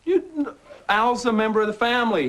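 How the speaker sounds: laughing mock protest. The speaker jokingly defends the spider.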